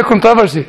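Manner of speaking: "controversy" stressed on TROV, kon-TOV-er-see; non-American pronunciation. Shown as a demonstration. Speaker showing his own accented way, second-syllable "controversy". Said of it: "a problem in my accent".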